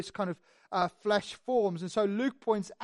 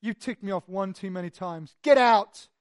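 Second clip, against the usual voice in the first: fed-up outburst; 3 semitones lower than usual. Retold or imitated. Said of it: "That Paul is like".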